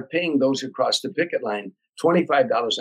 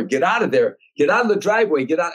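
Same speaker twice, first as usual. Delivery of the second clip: hollering at comedians; 5 semitones higher than usual. Retold or imitated. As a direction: yell them out of the driveway. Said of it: "and I holler".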